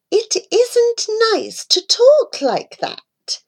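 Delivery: slow breathy whisper, scolding; whispered mother rebuke. A narrator's reading. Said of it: "My mother said from where she sat".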